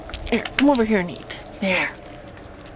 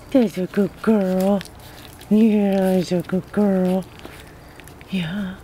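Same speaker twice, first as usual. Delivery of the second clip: talking to a dog; slower than usual. Real, not acted. Soothing praise for the dog.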